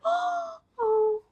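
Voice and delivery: tender mock-mom voice, drawn out; imitating touched mom. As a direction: coo over a keepsake like a mother. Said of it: "it wasn't in her voice when she's like".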